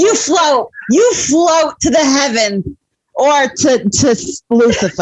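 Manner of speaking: high, drawn-out mock encouragement; cheering parent. Voicing encouraging mom to levitating pet.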